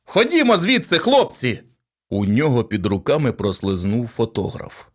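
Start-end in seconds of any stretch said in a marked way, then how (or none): 0.1-1.6 loud order. A narrator's reading. Policeman herding reporters out.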